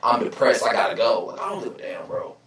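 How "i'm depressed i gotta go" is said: mocking someone announcing a break; mock depressed announcement. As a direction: sigh it out like a fake sad farewell. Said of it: "it's like".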